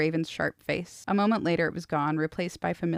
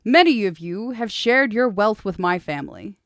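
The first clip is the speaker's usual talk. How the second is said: commanding prince; 4 semitones higher, 8 dB louder than usual. Acted. Prince's speech to the hall.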